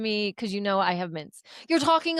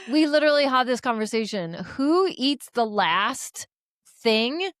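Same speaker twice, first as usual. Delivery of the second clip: indignant. Retold or imitated. Retelling how she confronted a coworker over mints, indignant.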